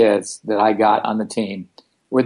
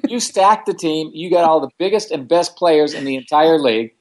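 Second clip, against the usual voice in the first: raised, heated telling-off; snapping back at the league organizer; angry retort; 5 semitones higher than usual. Retold or imitated. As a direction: put the lady in her place.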